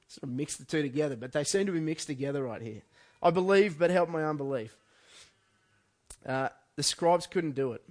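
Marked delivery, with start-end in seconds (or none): 3.2-4.8 loud, high cry of I believe, dropping on the plea; loud pleading cry; desperate cry. Retold or imitated. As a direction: call it out like the father in anguish. Quoting the father's desperate cry.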